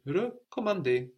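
Recommander with a plain first E and a light final E; model French word. Shown as a demonstration. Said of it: "Let it go once you've pronounced it".

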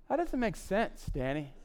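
lightly voiced objection, lifted then dropping on the name; doubting listener. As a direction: mildly protest as a skeptical listener. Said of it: "Some of you are going".

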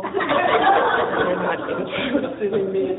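slow, laughing disbelief; amused, incredulous echo. Retold or imitated. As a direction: repeat it through a laugh, drawn out.

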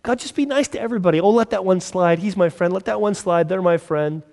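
high, fast mock pleading; a hint of wheedling favoritism; pleading believer. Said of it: "we want God to be nicer".

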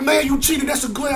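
put-on whiny kid voice. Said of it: "He be like".

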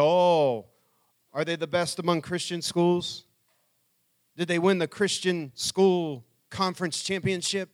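put-on sarcastic teenage dig at the school; snide mock-impressed questions; mocking sarcasm. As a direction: scoff at it with mock admiration. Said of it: "I was just dogged".

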